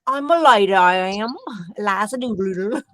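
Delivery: hammed-up bad Cockney flower girl; exaggerated, corny London Cockney; Cockney accent. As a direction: put on a terrible Cockney accent. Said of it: "the worst English accent".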